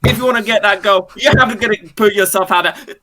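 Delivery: a drill sergeant hammering home a lesson; drill sergeant pep talk. Acted. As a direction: drill the recruit hard and quick. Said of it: "the drill sergeant snake".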